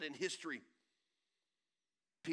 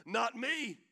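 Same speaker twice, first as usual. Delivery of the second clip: loud panicked denial, higher; frantic denial; 5 semitones higher, 7 dB louder than usual. Acted. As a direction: insist it was never you, voice up and loud. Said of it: "And Peter's like".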